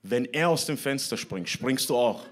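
lightly voiced mum's retort; a hint of parental scolding, punched at the end; scolding mother. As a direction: imitate a mother telling off her child. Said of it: "Und dann hat sie gesagt".

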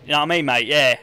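mock local Cockney, matey; Cockney accent. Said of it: "Can I do my best Cockney?".

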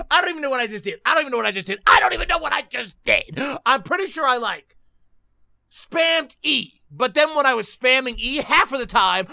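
agitated rant, pitch jumping up; worked up. Real, not acted. Player complaining about text on the screen, worked up. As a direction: rant as if too flustered to talk. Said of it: "I'm getting too worked up".

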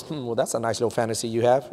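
low, soft mumbled aside; mumbling under his breath. Retold or imitated. Professor dismissing students' wrong answers, imitated mumble under his breath. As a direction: mutter it to yourself, imitating a dismissive teacher. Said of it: "he would always mumble under his voice".

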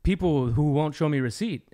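imitated Jamaican accent; retold Jamaican accent; thick Jamaican-style accent. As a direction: mimic a Jamaican man learning. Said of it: "Jamaican, some kind of accent".

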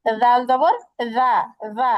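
রা said soft and light, slowly; soft Arabic letter, slow demo. Shown as a demonstration. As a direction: keep রা gentle and unforced. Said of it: "নরম করে".

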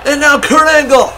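wrestling commentator. Acted. Live wrestling play-by-play.

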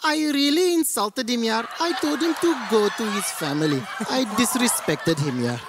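high, proud mock Indian accent; boasting Indian. Indian man bragging to friends about his insult, high Indian accent. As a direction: imitate an Indian bragging, pitched well up. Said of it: "they'll feel really tough".

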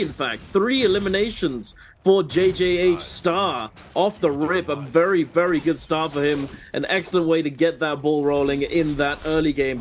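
live match call with rising excitement; excited play-by-play. Real, not acted.

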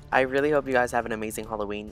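talking through fake buck teeth; speaking around fake buck teeth; overbite. Real, not acted. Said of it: "my fake buck teeth".

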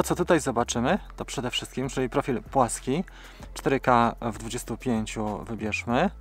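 ordinary talk, nothing marked

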